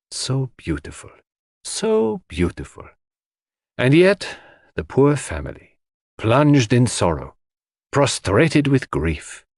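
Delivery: Poirot, sorrowful. A narrator's reading. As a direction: sigh over it mournfully, drawing the words out. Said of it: "gazed sorrowfully over the beautiful expanse".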